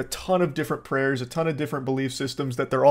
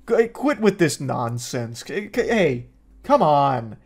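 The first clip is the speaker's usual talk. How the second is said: disappointed parent; slower than usual. Retold or imitated. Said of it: "like a disappointed parent".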